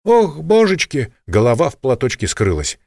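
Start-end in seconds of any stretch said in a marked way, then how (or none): 0.1-1.1 put-on high, slow startled gasp of an old woman; frightened old cleaner. A narrator's reading. Испуганная уборщица. (испуганная старушка-уборщица)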